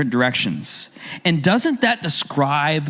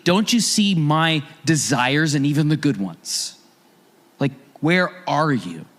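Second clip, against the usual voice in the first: mild hurt plea. Retold or imitated. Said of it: "She says to Jesus".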